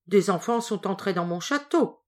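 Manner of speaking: a hint of a gruff ogre; lightly voiced, suspicious grumble. Ogre insisting to his wife, mildly gruff. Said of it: "continua l'ogre".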